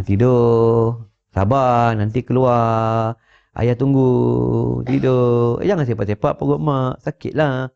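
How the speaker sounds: slow, gentle, hushing words to the belly; lightly voiced doting father; soothing the unborn baby. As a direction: coax the baby to sleep like a tender father. Father talking to baby in womb.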